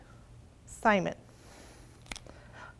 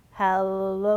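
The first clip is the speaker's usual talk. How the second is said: slow stretched hello; 4 semitones lower than usual. Shown as a demonstration. Teacher leads kids in slowest hello. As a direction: drag the hello out slowly. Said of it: "as slowly as we can".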